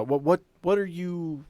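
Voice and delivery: normal talking voice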